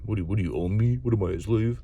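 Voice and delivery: mock-indignant put-on voice, lightly done; Murphy's offended retort. Marine objecting to being called my Marine, mock indignant. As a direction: play an affronted Marine scoffing at being owned. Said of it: "Murphy hates when you say "my Marine".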